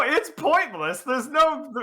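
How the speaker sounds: ordinary talk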